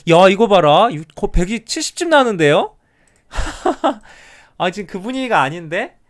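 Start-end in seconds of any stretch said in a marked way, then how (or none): 0.1-2.7 loud, high burst of surprise at the count; excited outburst. Real, not acted. Counting reveals a surprising result. 3.3-4.1 a high laugh of disbelief; burst of laughter. Real, not acted. Reacts to the surprising count.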